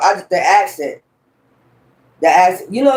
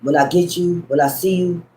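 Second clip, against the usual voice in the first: ruthless movie father; 3 dB quieter than usual. Retold or imitated. Father warning his daughter's kidnapper by phone, understated ruthless threat. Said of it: "It's some accent".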